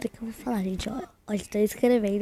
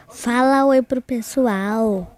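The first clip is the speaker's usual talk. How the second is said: drawn-out call; 6 dB louder, much slower than usual. Real, not acted. Calling friend to greet viewers.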